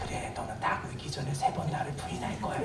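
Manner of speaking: soft, voiceless whisper; a quiet, hushed whisper. Pretend. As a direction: murmur it privately, just to Peter. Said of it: "이렇게 말씀하시지 않았을 거예요".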